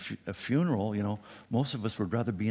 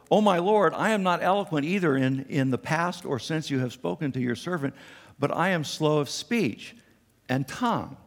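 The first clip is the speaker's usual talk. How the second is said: pleading Moses; 5 semitones higher than usual. Acted. Moses pleading with the Lord, whiny and high. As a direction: beg the Lord to be let off. Preacher voicing Moses' excuse.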